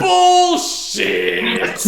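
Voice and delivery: loud high shout of disbelief; group yell. Acted. Players yelling bullshit at the lying shopkeeper. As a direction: shout it all at once.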